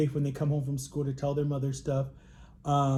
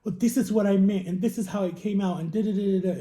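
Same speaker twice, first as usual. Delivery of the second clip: mocking mom; 5 semitones higher, 3 dB louder than usual. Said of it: "justified the next day with this".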